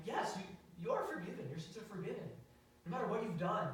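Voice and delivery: earnest retold insistence, pitch lifted; insistent reassurance. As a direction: press the reassurance on him. Retold reassuring of upset boy.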